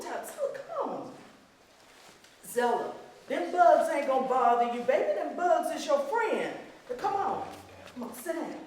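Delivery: a hint of a mother calling her child; loving mother calling. Mother calling her daughter away from the spring, fondly. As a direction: call the little girl back, fond and firm.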